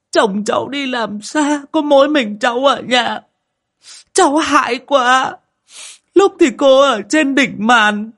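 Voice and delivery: high, loud, tearful pleading; crying plea. A narrator's reading. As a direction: sob out the story of the haunting night. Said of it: "vừa khóc, mếu máo". (vừa khóc vừa mếu máo kể lể, giọng cao và to)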